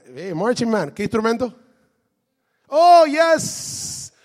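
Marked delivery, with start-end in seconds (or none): 2.7-4.1 excited boast. Real, not acted. Proud trumpet player boast.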